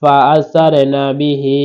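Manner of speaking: slow, drawn-out Quran recitation; measured Quranic recitation. Shown as a demonstration. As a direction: chant it slowly like tajweed practice. Reciting the verse.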